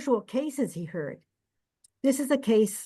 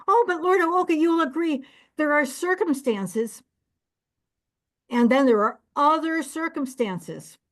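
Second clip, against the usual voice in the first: pleading innkeeper; 5 semitones higher than usual. Acted. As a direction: whine to the judge for sympathy. Innkeeper argues before the judge.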